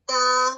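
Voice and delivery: تا said crisply, tongue tip behind the upper teeth; letter ta demo. Shown as a demonstration. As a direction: tap out تا cleanly. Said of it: "تو آپ کا تا ادا ہوگا".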